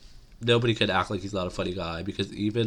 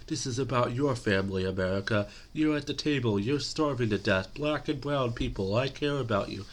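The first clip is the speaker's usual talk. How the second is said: higher-pitched imitation of a pleading politician; mock earnest appeal; 4 semitones higher than usual. Acts out Biden's appeal to America.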